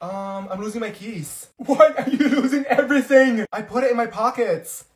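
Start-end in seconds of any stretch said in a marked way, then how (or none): 1.6-3.4 loud, higher, laughing through the question; incredulous laugh. Acted. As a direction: crack up mid-sentence. Laughing at friend's losses.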